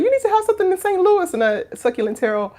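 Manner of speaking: high-pitched imitation of someone's advice; quoted urging. Teasing Saint Louis with their own words, high mimicry. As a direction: lift it high, quoting someone. Quoting a viewer's earlier suggestion.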